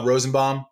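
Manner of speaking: "Rosenbaum" ending like "bomb"; -baum as BOMB. Retold or imitated. Son gives the waitress his name, "Rosenbaum" said with BOMB. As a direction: say "Rosenbaum" with AH at the end. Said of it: "I'm the bomb".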